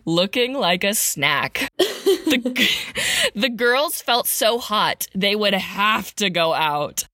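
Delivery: rhythmic storybook read; sing-song Christmas verse recital; poem reading. A narrator's reading. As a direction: read it like a holiday poem to kids. Reads Christmas poem parody aloud.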